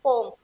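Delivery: poem said as "pome", one syllable; changed pronunciation. Shown as a demonstration. Teacher answering her own question, poem as one-syllable "pome". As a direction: drop the second vowel, making poem "pome". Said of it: "इसकी pronunciation अब आपकी change हो चुकी है".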